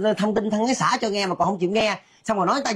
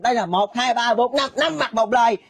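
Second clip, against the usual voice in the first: raised-pitch, insistent self-defence; indignant denial; 4 semitones higher than usual. Acted. Gossip confronting five people face to face, indignant. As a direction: challenge the accusers to confirm your innocence.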